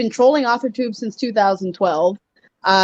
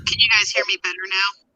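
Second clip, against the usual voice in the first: distant, roomy mic sound; sounding far from the microphone; faster than usual. Real, not acted. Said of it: "It's still doing".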